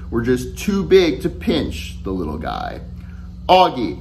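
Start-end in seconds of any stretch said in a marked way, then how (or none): 3.5-4.0 calling a friend, a bit louder; raised voice. Retold or imitated. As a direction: call his name over the noise. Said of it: "I raised my voice".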